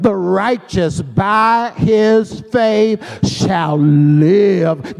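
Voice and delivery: measured preacher's reading, weight on "shall live"; emphasis on SHALL LIVE. Shown as a demonstration. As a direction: hold back, then land on "shall live". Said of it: "we should read this verse like this".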